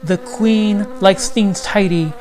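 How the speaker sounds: a hint of a strict honeybee officer; stern bee. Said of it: "the bee sternly said".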